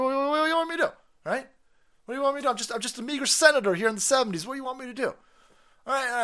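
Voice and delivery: high, fast mocking senator voice; mock old senator. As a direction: ham up a rambling politician promising everything. Impersonating Biden's campaign promises.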